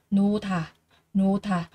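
"nô thả" with the H merged into an aspirated t; teacher models the sound change for learners, aspirated "thả". Shown as a demonstration. Say "nô thả" with a breathy th, as in Vietnamese thờ. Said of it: "biến đổi đọc thành là thờ".

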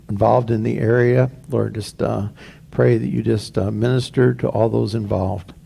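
hushed, earnest prayer to the Lord; pastoral prayer. Acted. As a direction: pray reverently on behalf of the church. Pastor leads a congregational prayer.

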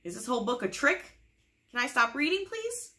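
hammed-up desperate plea; mock pleading. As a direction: beg like a trapped grown-up, rising to a squeak. Pleading reader forced to continue.

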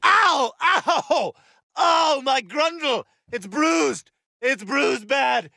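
high, drawn-out cries of pain; pained wailing. Acted. Hurt fighter crying out over an injury, pained. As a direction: howl over a bad bruise.

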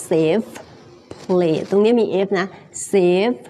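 "safe" with a clear F at the end; careful "safe", closing on F; final F sounded. Shown as a demonstration. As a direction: finish "safe" on an audible F.

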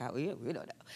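mock clueless students. Retelling her young classmates answering the director, softly mock clueless. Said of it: "we were like".

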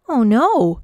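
high, loud dismayed gasp; shocked little girl. Acted. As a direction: gasp at the disappointing box. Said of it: "she gasped".

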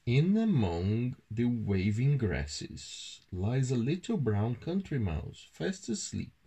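measured, expressive storytelling; children's story narration. A narrator's reading. Adult reading a mouse tale to a child, storytelling. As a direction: read it aloud to a young child.

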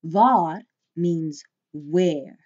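waar said slowly as vaar with a long open A; teacher drawing out waar as vaar; Afrikaans waar. Shown as a demonstration. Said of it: "Notice the long A sound there".

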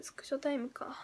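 breathy whisper to herself; whispering 「スクショタイムか」 under her breath. Real, not acted. Streamer whispering a viewer's comment to herself, whispered.

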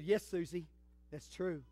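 a hint of a patient mom confirming it; lightly voiced mother. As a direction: quietly settle the child's question. Mother answers child in story.

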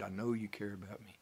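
sincere, hushed psalm prayer; trusting prayer. Shown as a demonstration. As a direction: pray it calmly, leaning on God. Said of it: "do it with the right attitude".

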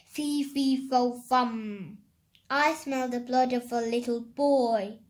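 loud storybook giant chant; giant's shout. A narrator's reading. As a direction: boom it out like a giant. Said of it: "he shouted".

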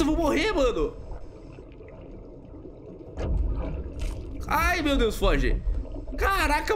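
high frantic yelling; panicked shouts at a monster; panicking gamer. Real, not acted. Eel attacks, player about to die. (gritando em pânico)

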